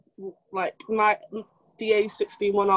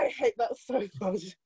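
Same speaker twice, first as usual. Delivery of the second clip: laughing; 7 dB quieter than usual. Real, not acted. Reacting to praise, laughing.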